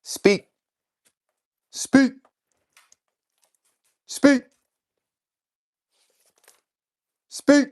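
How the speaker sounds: high, loud one-word command to the dog. Real, not acted. Owner coaxing his dog Boss to bark, high and loud commands.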